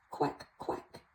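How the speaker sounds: duck quack. Pretend. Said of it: "The duck says".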